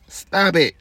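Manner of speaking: high, loud, exasperated stop it; high shout. Real, not acted. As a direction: shriek it at them, done with it. Ranting at women listeners.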